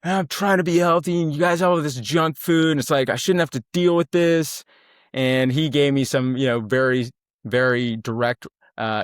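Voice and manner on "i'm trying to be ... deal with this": higher and louder, mocking himself; snarky remark. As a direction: snipe back with a sarcastic whine. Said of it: "made some snarky remark".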